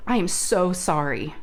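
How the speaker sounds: slow, sincere retold apology; imitated heartfelt apology. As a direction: draw it out as a deeply sincere sorry. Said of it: "I mean, heartfelt, so heartfelt".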